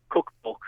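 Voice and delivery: "cookbook" with the short standard oo; standard pronunciation. Shown as a demonstration. Dialect expert showing the standard form, short-vowelled "cookbook". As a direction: say "cookbook" slowly, as in Milton Keynes. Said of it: "the, the standard".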